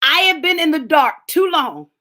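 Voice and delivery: shouted out, stress on have; preaching shout. Real, not acted. Preacher to congregation, shouting about the dark. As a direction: belt it to the congregation.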